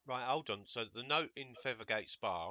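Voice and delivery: talking round a lolly; words slurred by a sweet in the mouth; mouth full. Real, not acted. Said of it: "I've got a lolly in my mouth".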